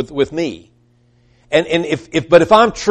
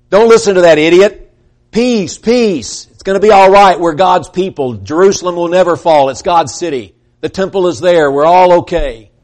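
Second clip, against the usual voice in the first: scoffing false prophets; 3 semitones higher, 4 dB louder than usual. Acted. False prophets dismiss Jeremiah to the crowd, loud and scoffing. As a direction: brush off the warning with a scornful laugh in the voice.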